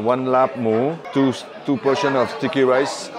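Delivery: slow, careful non-native English; ordering carefully in English, taking time over the words; effortful English. Real, not acted. French tourist ordering food in New York, in effortful English. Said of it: "j'ai fait un effort".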